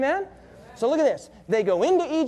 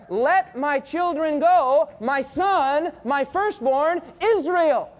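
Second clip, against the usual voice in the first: commanding Moses; 3 semitones higher, much slower than usual. Acted. Preacher voicing Moses to Pharaoh.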